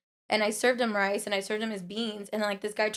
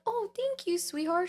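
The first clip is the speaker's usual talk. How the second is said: put-on old lady voice; 10 semitones higher, slower than usual. Sweet old lady thanking her.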